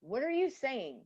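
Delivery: loud, high mock outrage; mock outraged. To herself at the nail salon, a loud high mock outburst. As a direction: blurt it out in fake indignation. Imagined quip at nail tech.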